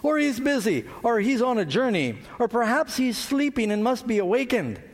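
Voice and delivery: high, taunting sarcasm; mocking. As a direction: needle them with fake concern. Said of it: "Elijah mocked them and said".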